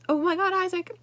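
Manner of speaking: startled cry, lightly acted; alarmed call. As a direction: call out his name in sudden fright. Hearing a yell, calling out.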